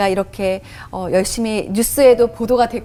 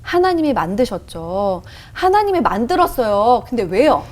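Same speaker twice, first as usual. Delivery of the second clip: re-enacted grudging reply building to irritation; annoyed answer. She answers the Holy Spirit's question, mildly angry and impatient. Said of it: "너무 화가 나 있었으니까".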